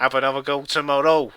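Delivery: quick mock Scouse delivery; attempted Scouse accent. Co-host showing how it goes, brisk attempted Scouse. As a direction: have a brisk stab at Scouse. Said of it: "I can't do a Scouse accent".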